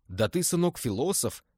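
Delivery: a touch of delighted surprise; surprised. Acted. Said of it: "удивился Назаров". (Назаров удивлённо хвалит Виктора)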